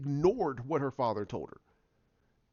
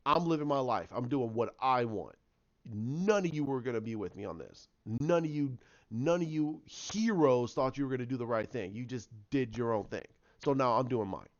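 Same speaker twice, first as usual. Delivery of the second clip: a hint of a defiant dark twin, softer and lower; lightly voiced darker Jin; 5 semitones lower, 4 dB quieter than usual. Darker Jin shrugging off the heroes, lightly voiced. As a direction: toss it off like the bitter double. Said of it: "So that's where we got this darker Jin".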